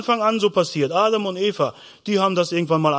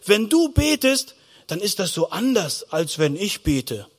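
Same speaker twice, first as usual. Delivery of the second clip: mild amazement; 2 semitones higher than usual. Acted. Preacher voices disciples questioning Jesus about prayer, mildly amazed. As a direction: marvel gently at how different it is. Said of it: "Die Jünger haben mal gestaunt".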